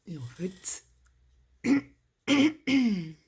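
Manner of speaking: a cracking voice that gives out. Real, not acted. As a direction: voice breaking mid-word. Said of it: "j'ai la voix qui se casse".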